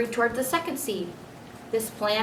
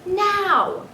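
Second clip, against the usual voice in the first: sharp, much higher and louder single command; firm order; 12 semitones higher, 6 dB louder than usual. Acted. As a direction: snap the word like a final order. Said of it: "his father repeated firmly".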